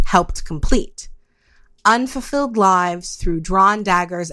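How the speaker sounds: slow, measured poetry reading; a slow recital of verse; poem recital. Acted. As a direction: read each line as a sonnet, with pauses. Reads her own anarchist sonnet.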